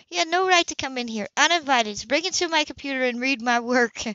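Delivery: high, sharp outraged protest; indignant and stung, pushing back hard. A narrator's reading. Woman confronting an intruder who read her work, indignant. Sybil furious at Philip intruding.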